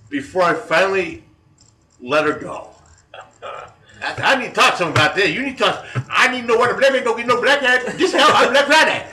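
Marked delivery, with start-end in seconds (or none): 3.4-9.1 very high, loud put-on Black American accent in mock outrage; hammed-up Black American accent, pitched way up and pushing louder; Ebonics imitation. Prank caller demanding a Black Friday discount from the manager, mock-outraged high, loud Black American accent. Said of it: "Ebonics imitation".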